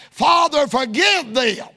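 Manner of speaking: preacher voicing Jesus' cry, lifted on Father. Jesus on the cross pleading to his Father, crying out. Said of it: "where Jesus cries".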